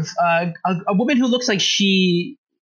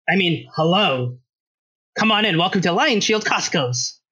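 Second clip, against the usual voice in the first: gruff shopkeeper woman. Acted. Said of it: "That's not a woman's voice".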